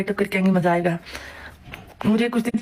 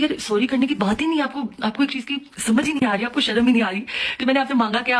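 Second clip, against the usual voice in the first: pitched-up angry lecture; indignant, higher; 3 semitones higher than usual. Retold or imitated. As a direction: refuse the apology heatedly. माफ़ी पर भड़कना. (ऊँची आवाज़ में गुस्से से फटकारना)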